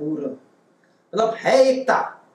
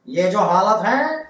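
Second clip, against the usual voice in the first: Modi impression; slower than usual. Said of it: "Modi साहब".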